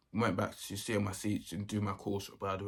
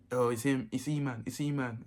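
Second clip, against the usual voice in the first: higher-pitched mock snitching; telltale mate; 4 semitones higher than usual. Mate gives him up to the teacher, telltale blurting. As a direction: imitate a classmate blurting out the culprit.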